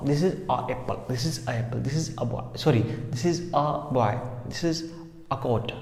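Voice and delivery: "a" as in "about"; article as "uh". Shown as a demonstration. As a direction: say each "a" as "uh". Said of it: "It is correct pronunciation a".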